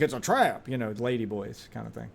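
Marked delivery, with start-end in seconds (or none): 0.0-0.7 sharp pitch leap on "trap"; mock warning cry; mock meme exclamation. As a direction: toss out the meme line, pitch swooping up. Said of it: "be like".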